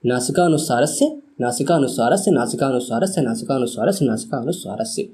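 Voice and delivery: steady chanting recitation of the formula; recitation drill. Shown as a demonstration. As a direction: recite it like a rote memory drill. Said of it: "मैं आपसे कहूँगा कि आप मेरे साथ repeat ज़रूर करें".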